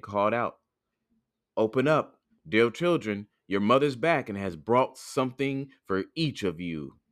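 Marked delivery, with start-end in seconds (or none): 1.6-7.0 lightly voiced wolf posing as mother; a hint of gruffness, barely disguised; wolf coaxing at the door, little put on; gruff wolf. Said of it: "by his gruff voice".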